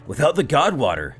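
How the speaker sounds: ordinary delivery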